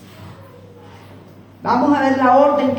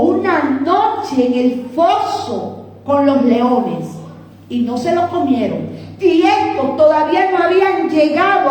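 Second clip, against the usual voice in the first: dramatic preaching; 3 semitones higher than usual. Real, not acted. Preacher dramatizes the enemies' fate.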